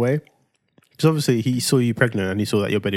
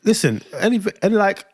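heated; 8 semitones higher than usual. Real, not acted. Arguing with wife about abs.

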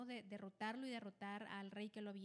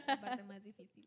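said loudly through a laugh; 10 dB louder than usual. Real, not acted. Host joking to friends about having to start first, laughing. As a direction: laugh through the words, louder.

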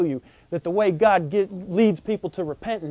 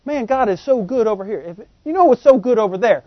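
starts plain, builds higher and louder to the end; building appeal; 5 semitones higher, 5 dB louder than usual. Pretend. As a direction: coax harder and harder. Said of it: "He said".

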